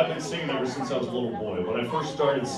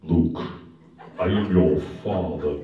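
Darth Vader; 10 semitones lower than usual. Retold or imitated. Schoolboy booming at his classmates in a Darth Vader voice. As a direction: drop the voice low and play the masked villain. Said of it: "pretending I was Darth Vader".

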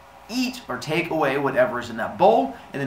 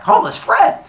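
much higher, loud alarmed cry; startled yell; 9 dB louder than usual. Pretend. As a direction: yell his name in shock. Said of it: "and you're like".

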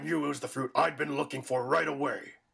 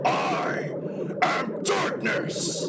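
slow, high, roaring declaration; proclaiming shout; 11 semitones higher, much slower than usual. Acted. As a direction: stretch each word out as you bellow. Villain proclaims his power.

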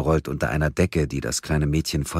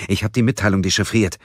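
stotternd; 5 semitones higher, 5 dB louder, faster than usual. A narrator's reading. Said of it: "stotterte Gabriel".

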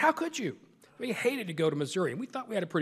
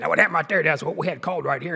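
coach explaining on air; 2 semitones higher, 7 dB louder than usual. Retold or imitated. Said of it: "he'd come over and say".

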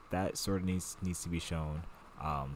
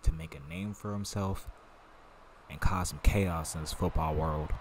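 put-on country accent. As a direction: lay on a little country accent. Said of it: "Got my little country accent going".

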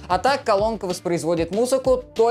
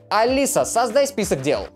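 voice command; 5 semitones higher than usual. Shown as a demonstration. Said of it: "сейчас я вам продемонстрирую".

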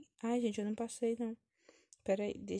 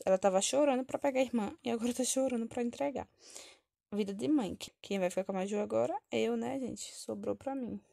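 usual speaking voice

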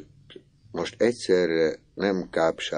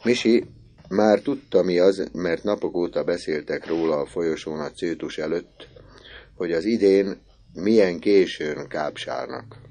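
ordinary delivery

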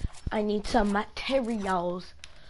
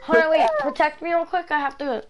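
urgent shout; 6 semitones higher, 7 dB louder than usual. Real, not acted. Urgent call mid-fight.

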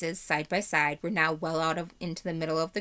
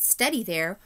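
firm loud; 3 semitones higher, 4 dB louder, slower than usual. Acted. Talking horse Bree confronts rider.

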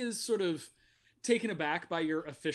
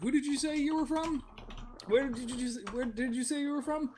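tag; 7 semitones higher than usual. Acted. Game master voices Polya questioning.

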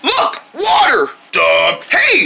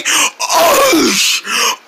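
groan; 7 semitones higher than usual. Acted. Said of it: "that was just a big old groan".

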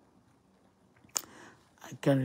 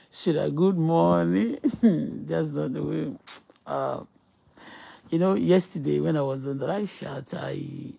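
usual speaking voice

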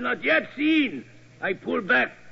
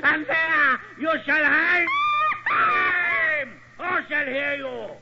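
villainous gloat; 3 semitones higher than usual. Acted. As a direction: crow over the helpless captive. Villain gloating over hanging victim.

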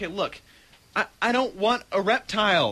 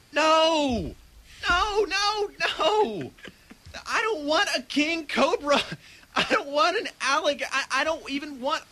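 panicked refusal; 4 semitones higher than usual. Acted.

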